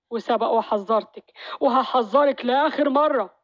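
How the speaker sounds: slow, deliberate last warning. Acted. Maher warning his wife for the last time, slowly. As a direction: spell out the threat word by word.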